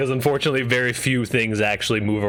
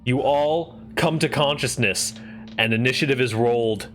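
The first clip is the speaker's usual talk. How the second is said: game master narration. Acted. GM sets combat scene.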